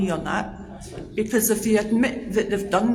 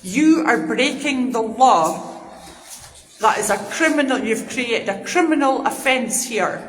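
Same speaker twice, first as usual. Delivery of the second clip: angry dressing down. Real, not acted. Heated confrontation with officers.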